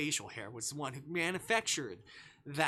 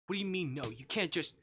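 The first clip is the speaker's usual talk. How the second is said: higher, louder demanding what; rising protest; 5 semitones higher, 4 dB louder than usual. Acted. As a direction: push back, cut off mid-sentence. Protagonist protests, interrupted.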